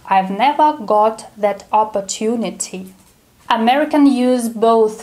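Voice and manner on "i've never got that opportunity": the line in a careful British accent. Shown as a demonstration. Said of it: "Let's say it with a British accent".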